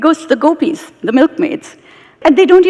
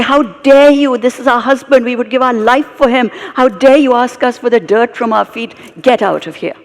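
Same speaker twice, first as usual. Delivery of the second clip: indignant, higher and louder; outraged, how dare you; angry queens; 5 semitones higher, 3 dB louder than usual. Retold or imitated. Queens scold the sage for asking, angry. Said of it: "They are so angry with him".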